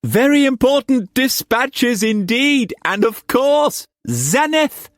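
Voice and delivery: very high, excited exclamation. Acted. Uncle welcoming his unexpected nephew, excited. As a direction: call it out in a high, eager rush of feeling. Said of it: "He got up excitedly".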